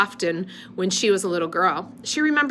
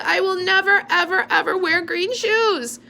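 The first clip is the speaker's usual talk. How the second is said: put-on high, loud childish whine; whiny little girl; 12 semitones higher, 4 dB louder than usual. A narrator's reading. Little sister refusing green shoes, high whiny protest.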